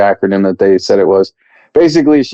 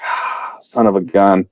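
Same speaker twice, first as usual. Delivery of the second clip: muttered curse; 3 semitones lower, 5 dB quieter, slower than usual. Retold or imitated. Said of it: "And it's like".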